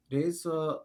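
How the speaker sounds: "razor" said Japanese-style, like "deiza"; Japanese accent. Retold or imitated. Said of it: "razor with an Asian accent".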